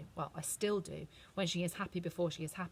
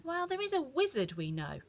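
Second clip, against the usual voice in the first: higher, musing kindly voice; thoughtful witch; 8 semitones higher than usual. A narrator's reading. The witch considers a wizard, thoughtful. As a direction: mull it over gently. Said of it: "went on thoughtfully".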